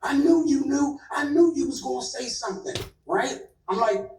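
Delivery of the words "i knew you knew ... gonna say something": higher, accusing yell, mock; accusing outburst. Actor accusing her of talking, retold upset outburst. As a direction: blurt it like a betrayed man. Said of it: "he spazzes out again".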